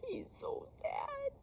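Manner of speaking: high unvoiced whisper; hushed sympathy. A narrator's reading. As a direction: whisper it tenderly to kids.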